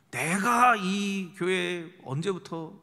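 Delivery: 느리게 힘주어 따지는 교인 흉내; 소유권을 주장하듯 말끝을 길게 끌며. Acted. Acts out quarrelling church members. (살짝 과장해 텃세 부리는 말투)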